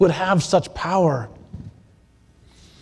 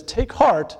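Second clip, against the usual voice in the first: reassuring Jesus; 3 semitones lower than usual. Acted. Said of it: "he immediately speaks to them".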